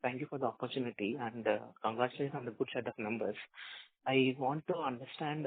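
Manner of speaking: faint voice on a weak line; barely audible. Real, not acted. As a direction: still very soft on the phone. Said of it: "your voice is very low".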